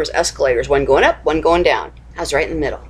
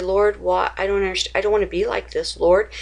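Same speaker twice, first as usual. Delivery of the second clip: pleading prayer; 3 semitones higher than usual. Pretend. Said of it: "go to him and say".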